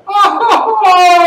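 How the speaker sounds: high, drawn-out shout; hammed-up Italian welcome; delighted greeting. Shown as a demonstration. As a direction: holler as if spotting a long-lost friend. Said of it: "haven't seen somebody in a long time".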